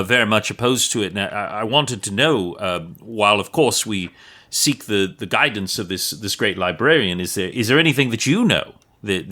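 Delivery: wordy, halting plea in light Cockney; lightly voiced Cockney wood elf; formal, stammering appeal with a hint of Cockney; Cockney accent. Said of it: "like, a Cockney accent".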